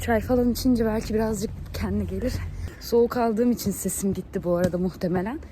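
raspy voice after a cold; hoarse voice. Real, not acted. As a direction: speak with a scratchy, lost voice. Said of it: "Sesim kısıldı". (soğuk algınlığıyla kısık ses)

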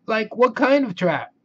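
Shaggy asking. Acted. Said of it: "asked Shaggy".

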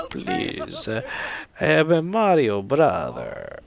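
slow, hammed-up Italian plea; mock Italian Mario brother. Host voices the dying gnome begging, mock Italian accent. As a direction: plead slowly in a cartoon Italian accent. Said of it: "looks like a gnome had sex with a Mario brother".

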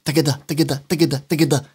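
rhythmic galloping-hooves imitation; quick, even triplets like hoofbeats; galloping horses. Shown as a demonstration. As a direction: tap out a gallop with the syllables. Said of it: "les chevaux qui galopent".

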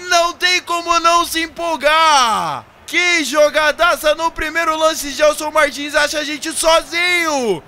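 screaming the goal, high and loud; explosive goal commentary. Acted. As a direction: roar it like a TV narrator. Goal scored in football game.

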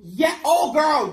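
camp it up like a gossiping diva; sassy diva voice. Acted. Sassy gossip reply to friend.

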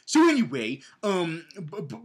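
ordinary talk, nothing marked

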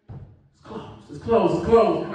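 slow mock Noah saying closed; a hint of Noah peeking out; imitating Noah. Noah at the window refusing them, slow and mocking. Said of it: "I bet you Noah was like this".

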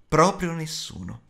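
plain reading voice

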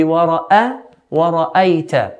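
wara'ayta slowly, with an open a before the y; clear fatha. Shown as a demonstration. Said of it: "fatha makes an A sound".

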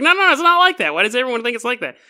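defensive and caught out; flustered denial. Retold or imitated. Vincent defends himself flustered.

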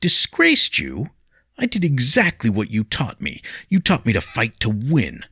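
high, loud, defiant protest; a hot-headed youth standing his ground; agitated young William. A narrator's reading. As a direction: pupil defending himself to his teacher. William argues with Jiro.

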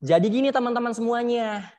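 projected chest voice; suara dada. Shown as a demonstration. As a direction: speak out from the chest. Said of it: "Beda kan?". (suara lantang dari dada)

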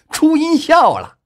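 very high, loud, stretched yell; wild, drawn-out joyful holler; frantic shout. A narrator's reading. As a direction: scream it out for dear life. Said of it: "玩了命一般的大声叫道".

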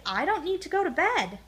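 high hooting little cub; childlike high, hooty protest; owl hoot. A narrator's reading. Little Bear refuses bedtime as an owl, high hooting. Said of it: "he hooted".

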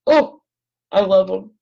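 high, loud burst of adoration; real gushing. Real, not acted. Crafter adoring little babies in her picture, gushing. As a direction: gush over something adorable, pitch soaring.

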